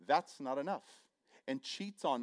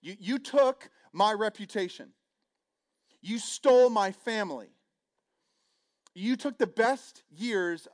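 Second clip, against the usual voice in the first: loud, raised voice blaming someone who took from you; wounded fury, loud and pressing; hurt, angry accusation; 3 semitones higher, 6 dB louder than usual. Retold or imitated. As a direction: accuse them, voice swelling with hurt. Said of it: "it'd be expressed like this".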